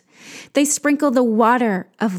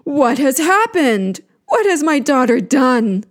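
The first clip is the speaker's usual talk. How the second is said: louder, raised, urgent questioning; grave concern; 3 semitones higher, 4 dB louder than usual. Acted. Enki hearing of his daughter's danger, gravely concerned. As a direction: demand it with grave alarm. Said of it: "Enki responds with grave concern".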